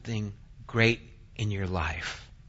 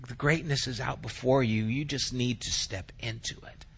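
whisper; 7 dB quieter than usual. Acted. God voiced, hushed.

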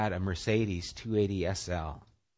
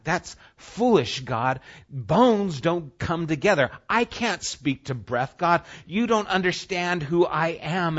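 raised, slow, emphatic objection; doubter's protest; 7 semitones higher, 6 dB louder than usual. Acted. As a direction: argue back at God in disbelief. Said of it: "Sometimes it'll seem like".

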